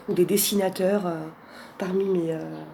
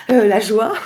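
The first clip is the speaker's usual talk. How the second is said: laughing; 3 semitones higher, 4 dB louder than usual. Real, not acted. Laughs while reading card.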